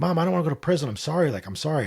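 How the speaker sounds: play-acted, high, rushed, terrified pleading voice. Retelling how he hugged his mom after a prison warning: retelling his terrified plea. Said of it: "And I was just terrified".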